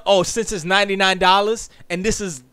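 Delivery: normal talking voice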